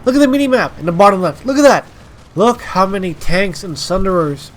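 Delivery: urgent excitement; excited. Real, not acted. Excited gameplay commentary.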